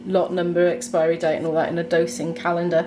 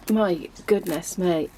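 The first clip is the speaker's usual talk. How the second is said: breathless whisper in the freezing cold; hushed gasps, chilled to the bone; gasping in icy wind; 3 dB quieter, slower than usual. Real, not acted. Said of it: "it's cold out here".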